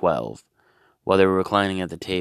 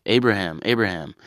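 a hint of a calling angel, a bit louder; terrible angel impression; 3 semitones higher, 4 dB louder than usual. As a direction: call out like a lame angel. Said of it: "Terrible impression of an angel".

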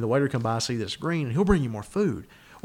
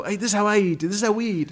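higher mock Brazilian accent; a hammed-up Brazilian chef boasting; proud put-on Brazilian accent; 8 semitones higher than usual. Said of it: "killer Brazilian accent".

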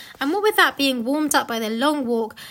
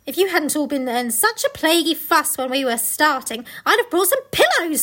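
a touch of fussy complaint, rising higher at the end; lightly voiced Missus Beaver; 4 semitones higher, 4 dB louder than usual. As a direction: lightly act out a fussing storybook character. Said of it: "said Missus Beaver".

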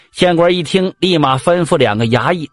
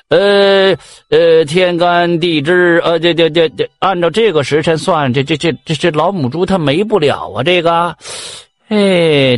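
hesitant mock divining. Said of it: "就掐算着说".

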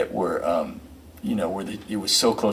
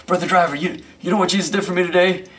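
much higher, louder churchy question; exasperated choir man; 9 semitones higher, 3 dB louder than usual. Retold or imitated. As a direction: plead the question fervently. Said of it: "and he says".

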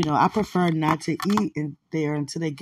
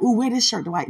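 excited coaxing; 4 semitones higher than usual. Pretend.

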